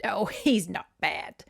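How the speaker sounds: put-on whispery fond chuckle in British accent; fond, laughing. Great aunt laughing about her cat, fond British voice. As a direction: laugh it off affectionately, half-voiced. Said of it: "she said fondly".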